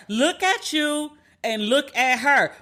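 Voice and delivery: slowed right down, each word laid out; slow emphatic jab. Retold or imitated. Driving the point home to listeners, slow and deliberate. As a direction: spell it out slowly so he gets it. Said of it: "'Cause I was like".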